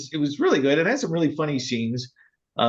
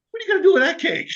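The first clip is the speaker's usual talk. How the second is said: imitating a worried brother; 14 semitones higher, much faster than usual. Brother asks about the cake.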